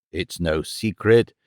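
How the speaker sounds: low, slow and even; calm voice. A narrator's reading. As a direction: settle the matter calmly. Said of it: "he said in a calm voice".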